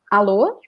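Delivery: "Alô?" said as a rising Brazilian phone hello; Brazilian phone greeting. Shown as a demonstration. Teacher demonstrating the Brazilian "Alô?" to students. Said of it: "and say".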